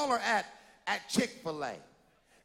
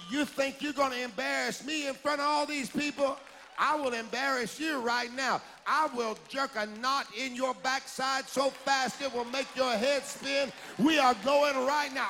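stern parent; 2 semitones higher than usual. Retold or imitated. Parent to defiant child in restaurant, stern rising scolding. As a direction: lay down the law, rising to a hard final command. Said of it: "and say".

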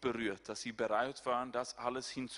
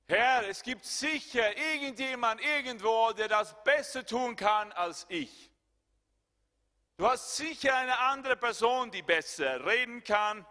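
high, louder begging; pleading Moses; 9 semitones higher, 8 dB louder than usual. Retold or imitated. Moses begging the Lord to send another, high and loud. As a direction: plead to send someone else. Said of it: "repeated verse".

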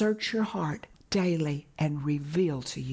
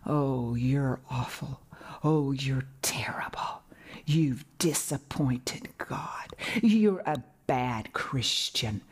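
accusing condemnation; 4 semitones lower than usual. Acted. Condemnation comes accusing a believer, low, measured reproach. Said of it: "condemnation comes and says".

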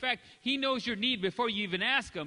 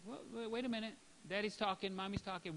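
hushing parent; 9 dB quieter than usual. Retold or imitated.

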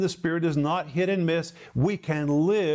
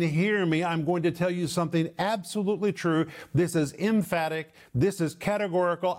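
preacher voicing Paul's raised, emphatic declaration; lifted voice, emphatic. Preacher voicing Paul telling listeners something absolutely true, emphatic. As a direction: declare it categorically, slowing into the final promise. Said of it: "Paul's lifting his voice".

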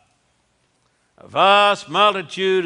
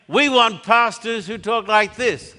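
mock critics' quote; 3 semitones higher than usual. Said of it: "They say".

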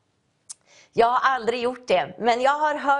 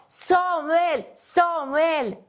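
higher-pitched call, each name falling away; calling out Samuel's name; 5 semitones higher, much slower than usual. Acted. God calling the sleeping boy Samuel, a raised call. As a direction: call his name across the dark room. God calls a fourth time.

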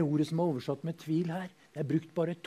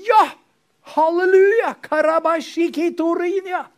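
much higher, louder jubilant shout in tongues; ecstatic tongues; 13 semitones higher, 12 dB louder than usual. Acted. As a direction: burst out in tongues.

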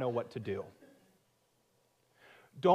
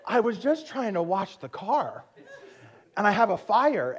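exasperated disbelief; 6 semitones higher, 4 dB louder than usual. Retold or imitated.

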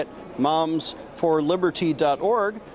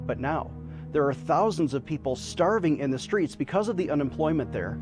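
charity appeal. Acted. Fundraising appeal over music.

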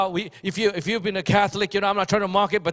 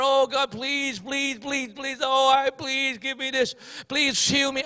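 mock begging prayer; 3 semitones higher, slower than usual. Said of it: "they pray to their God".

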